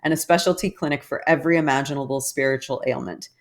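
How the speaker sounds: reading aloud. Acted. Reads an article aloud.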